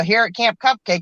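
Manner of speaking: ordinary talk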